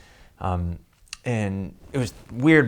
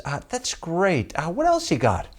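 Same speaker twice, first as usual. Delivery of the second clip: imitating the producer; 9 semitones higher than usual. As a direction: drag it out, unimpressed. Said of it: "And she goes".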